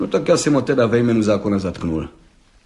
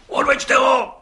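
much higher, loud furious roar; 4 dB louder, slower than usual. A narrator's reading. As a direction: bellow the order to take him away. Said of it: "zařval okresní soudce". (zařvat vysoko a hlasitě)

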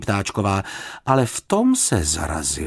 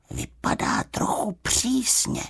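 higher, slow polite little bear; a bear minding his manners; 13 semitones higher, 4 dB quieter, slower than usual. A narrator's reading. Paddington remark.

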